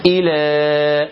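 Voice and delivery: إلى slow with the final long a held; slow recited إلى with long ending; held alif. Shown as a demonstration. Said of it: "وليس إلى".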